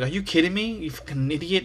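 mock scolding as the annoyed girlfriend; lightly voiced irritated girlfriend; angry girlfriend. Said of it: "And my girlfriend's like".

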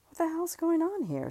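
high, startled outburst; rising up in shock; shocked inner voice. Acted.

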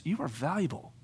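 softly reassuring; tender affirmation. Retold or imitated. Jesus staring her in the eye, tender affirmation. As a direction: affirm her gently and sincerely. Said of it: "staring her in the eye".

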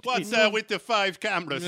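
high, coy innocent voice; simpering. Retold or imitated. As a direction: ask it with feigned innocence. Porn actress voiced.

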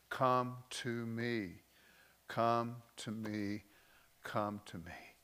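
slow, gentle invitation; slow tender plea, fading; tender call. Acted. Voicing God's gentle call.

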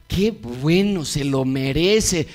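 spiteful satisfaction, pushed out loud; gloating. Pretend. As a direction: crow over the aunt's misfortune. Supiste lo que le pasó a mi tía.

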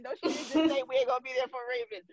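high, fast disbelieving squeal; shocked, in disbelief, rushed; mock outrage. Friends recounting a shocking remark, squealing in disbelief.

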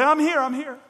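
put-on loud, high, eager child calling out. Young Samuel calling out eagerly to Eli. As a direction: burst in like an excited little boy.

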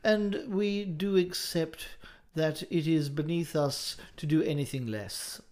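slow, stately mock formality; hammed-up antique pomp; mock-archaic proclamation. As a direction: intone it like an old-world orator. Mock-archaic podcast opening.

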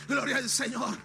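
building revival exhortation; fervent preaching. Acted. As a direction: drive it home to the congregation. Preaching with renewed fervor.

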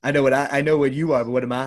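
a hammed-up Trump impression; mock Trump. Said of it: "he just goes".

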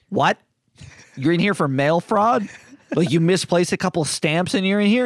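imitated incredulous questioning. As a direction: act out an astonished fellow inmate. Acting the inmate's disbelief at crime.

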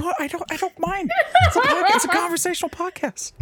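high-pitched laugh through words; giggling as you talk. Real, not acted. Laughs while reassuring co-host.

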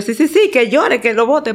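laughing insistence. Retold or imitated. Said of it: "Y yo".

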